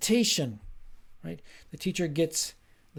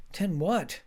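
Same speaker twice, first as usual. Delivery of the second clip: higher, puzzled echo question; feigned incomprehension; 4 semitones higher than usual. Acted. Teacher asking the student to clarify, pretended puzzlement. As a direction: question it as if you can't understand. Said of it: "pretends that he or she can't understand".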